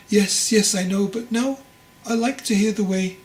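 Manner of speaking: lightly voiced old master, keen to hear; eager old master.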